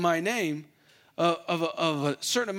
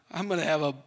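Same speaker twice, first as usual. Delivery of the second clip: laughing joke. Real, not acted. Joke to congregation.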